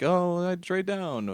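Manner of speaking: high, slow mock suggestion; imitated draft chatter. Mimicking what gets said every draft year, drawn-out mock call. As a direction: draw it out as a tired old refrain.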